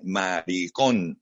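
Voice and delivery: maricón drawn out slowly, leaning hard on the final O; mocking retintín. Trans woman retelling how police officers sneered at her, maricón slow with a stressed O. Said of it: "con acento en la O, con ese retintín".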